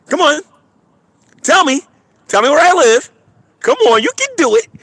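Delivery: high goading dare; taunting. Real, not acted. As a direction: egg them on, teasing. Taunting viewers to find him.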